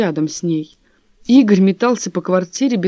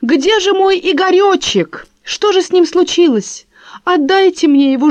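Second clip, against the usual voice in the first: mocking the mistress; 11 semitones higher, 5 dB louder than usual. Wife mocking husband's lover's pleading, high simpering voice. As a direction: mimic the lover's simpering plea. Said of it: "Ах, — говорит".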